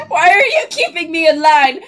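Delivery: entitled customer. Pretend. Impersonating rude customer, laughing.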